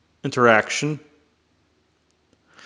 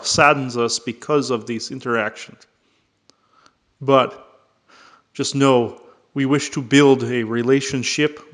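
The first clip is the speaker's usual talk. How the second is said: put-on channeled alien, Russian accent. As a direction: speak as a visiting being who borrows a Russian accent. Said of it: "can mimic close the Russian accent".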